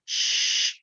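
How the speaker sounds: a voiceless hushing "sh-"; sh sound demo. Shown as a demonstration. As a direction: breathe out a clean "sh-". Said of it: "Shh, dan ulangi".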